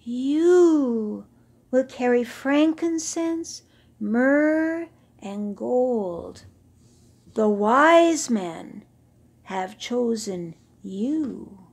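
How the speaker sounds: booming, drawn-out voices from the wind; mysterious sand voices. Acted. Sand voices announcing to the old camel, slow and booming. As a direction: speak as the desert sand itself.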